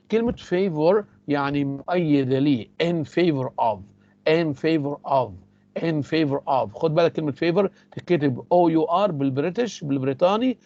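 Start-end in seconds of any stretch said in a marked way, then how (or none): 4.3-6.7 slow drill. Shown as a demonstration. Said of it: "teacher drills the phrase slowly".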